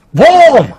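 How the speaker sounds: "Born" shouted high and loud, clear b; born said clearly. Shown as a demonstration. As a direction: stress the b in "Born". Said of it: "Not, not warm".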